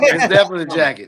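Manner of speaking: fast, laughing agreement; joining the joke about the jacket. Real, not acted. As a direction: chuckle it out quickly.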